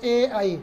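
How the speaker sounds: ए and आई drawn out, tongue toward palate; vowel demo. Shown as a demonstration. Teacher demonstrating ए and ऐ for students to say along. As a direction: sound out ए then आई slowly. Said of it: "जैसे कि आप बोल करके भी देख सकते हैं".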